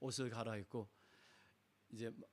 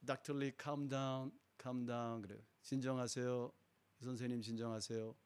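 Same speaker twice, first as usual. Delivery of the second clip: soothing nurse. Retold or imitated. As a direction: settle a panicked doctor gently. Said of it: "껴안아주면서".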